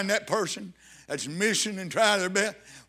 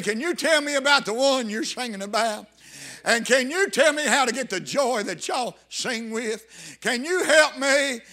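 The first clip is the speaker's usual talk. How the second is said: imitating a prisoner's urgent plea, building higher; crying out; 4 semitones higher, 3 dB louder than usual. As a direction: plead out loud, stretching the final appeal. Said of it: "somewhere cried out".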